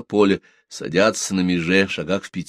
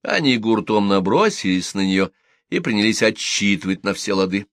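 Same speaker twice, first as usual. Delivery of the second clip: usual speaking voice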